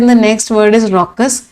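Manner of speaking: very slow, each word spaced; slow dictation. Shown as a demonstration. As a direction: spell it out slowly for the class. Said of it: "teacher announcing new word". (बहुत धीरे, शब्द-शब्द अलग करके)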